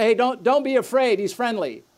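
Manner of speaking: a hint of a cheery parent calling out; reassuring parent. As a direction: lightly act the parent who says it's fine. Parent reassuring child about dog.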